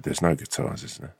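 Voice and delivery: hushed retold whisper; a soft conspiratorial whisper. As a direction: drop it to a mock whisper. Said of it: "And he just whispered".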